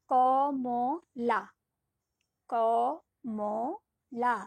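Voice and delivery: ক, ম, লা pulled out slowly; drawn-out syllables. Shown as a demonstration. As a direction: stretch each syllable of ক ম লা long. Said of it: "ইচ্ছে মতো টানতে পারছি".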